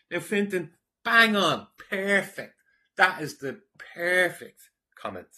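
delighted loud shout of approval; excited praise. Real, not acted. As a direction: cheer the commenter on, loud and high. Enthusiastic praise of a comment.

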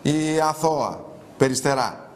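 slow, drawn-out "Η αθώα Περιστερά"; mock innocence. Host mocking a woman in a photo, slow irony. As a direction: dwell on each word, held back. Mocking repeat of nickname, first quiet.

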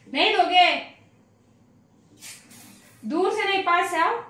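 playful pet talk. Real, not acted. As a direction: coax the pup to come closer. Coaxing the dog again.

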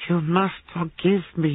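high, slow, mirthful gasp; gasping with laughter. A narrator's reading. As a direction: beg pardon through helpless amusement. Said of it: "he gasped".

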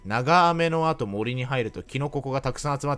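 lightly voiced kindergarten teacher tone; a hint of explaining to little kids; talking to toddlers. Streamer explaining the mushroom Pokémon like a kindergarten teacher, lightly. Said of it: "幼稚園児に話しかけるみたいな口調".

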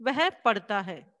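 वह पढ़ता है read slowly, falling to a full stop; slow finished statement. Shown as a demonstration. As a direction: say वह पढ़ता है slowly and settle down at the end. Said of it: "यानी कि बात complete हो गई".

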